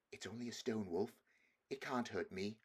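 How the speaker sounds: softly telling himself it's fine; nervous self-reassurance. Acted. Edmund calming himself before the stone wolf, quiet. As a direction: hush your own fear under your breath. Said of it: "he kept saying to himself".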